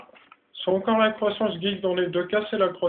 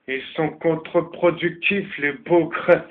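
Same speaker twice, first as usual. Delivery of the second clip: put-on German accent; slower than usual. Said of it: "je vois bien les Allemands dire les bougres".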